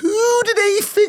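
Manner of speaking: very high, drawn-out, indignant squeak.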